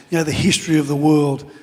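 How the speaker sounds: normal talking voice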